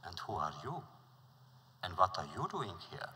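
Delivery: polite wise man returning the prince's question. Acted. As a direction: turn the question back politely. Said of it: "And he was polite".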